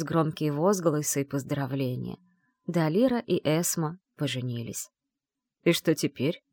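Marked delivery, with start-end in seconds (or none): 5.6-6.4 hoarse question. A narrator's reading. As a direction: rasp it out hoarsely. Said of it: "спросил маг хрипло".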